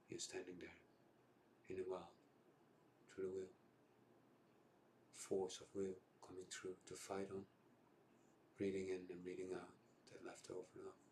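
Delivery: freestyle spoken-word monologue with long pauses; improvised war poem, pausing between images; down, raw monologue. Acted. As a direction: intone it like a film voiceover, phrase by phrase. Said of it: "it's a bit down and raw".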